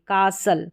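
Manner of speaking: कासल with S running straight into L, no T; silent T. Shown as a demonstration. Teacher modelling STLE for learners, silent T. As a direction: say कासल as KAA-sul. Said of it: "कासल करके पढ़ेंगे".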